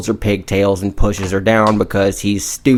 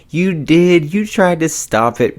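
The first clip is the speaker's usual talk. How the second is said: mock disbelief; 8 semitones higher than usual. Evil Maria mocks friend's excuse.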